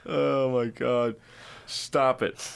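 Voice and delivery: slow, high groan through laughter; laughing protest. Real, not acted. Cohost pleading with him to stop, laughing slowly. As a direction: beg him to stop while cracking up.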